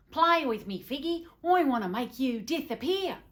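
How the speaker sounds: high, loud, eager wheedle; whiny childlike husband. Acted. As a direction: plead like an overexcited little boy. Husband's childish pleading acted in narration.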